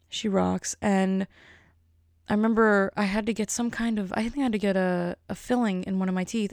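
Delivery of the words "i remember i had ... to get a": usual speaking voice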